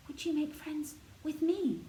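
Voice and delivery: soft, eager, coaxing. A narrator's reading. Mary coaxing the robin to be her friend, soft and eager. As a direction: coax the robin gently like a friend. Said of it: "soft and eager and coaxing".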